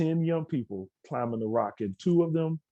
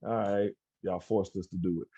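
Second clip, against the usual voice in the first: lower, softer, grudging mumble; sulky kid blaming the adults; sullen teen reply; 3 semitones lower, 4 dB quieter than usual. Retold or imitated. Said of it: "Guess what happened?".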